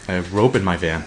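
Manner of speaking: low, soft, ominous big man; Simon. Acted. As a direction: drop deep and quiet like a looming six-foot-four man. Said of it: "six-foot-four just off the accent".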